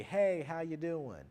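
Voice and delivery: friendly greeting. Shown as a demonstration. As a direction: greet a buddy you bump into at Walmart. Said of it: "You may be more friendly".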